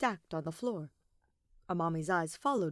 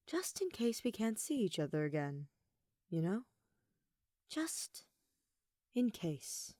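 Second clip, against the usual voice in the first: soft, hushed whisper; intimate whisper; 3 semitones higher, 3 dB quieter than usual. Acted. Amami whispers to Kaede before kissing her, hushed. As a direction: breathe it close to her ear.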